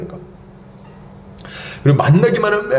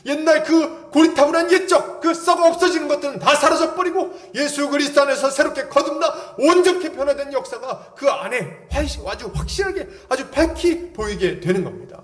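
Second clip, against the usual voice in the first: ordinary talk, nothing marked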